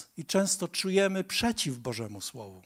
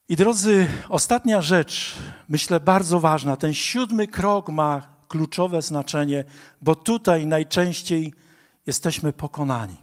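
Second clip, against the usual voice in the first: rousing preaching; 6 dB louder than usual. Real, not acted.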